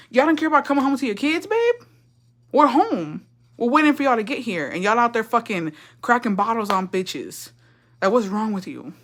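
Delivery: a touch of indignant, pleading complaint; mock scolding. Kid to parents who stayed out partying, mock scolding. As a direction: lightly act out an exasperated kid scolding.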